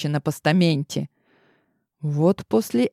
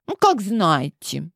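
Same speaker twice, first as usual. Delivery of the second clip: pouting; 2 semitones higher, slower than usual. Acted. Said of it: "надула пухлые губки барышня".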